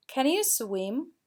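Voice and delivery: slow, pitch rising on "swim?"; teacher modelling rising intonation for students; rising question tune. Shown as a demonstration. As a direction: demo slowly, lifting "swim?" at the end. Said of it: "we need to raise our intonation".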